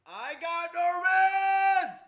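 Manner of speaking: hollering the brag in triumph; triumphant shout. Real, not acted. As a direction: bellow it like a victory cry.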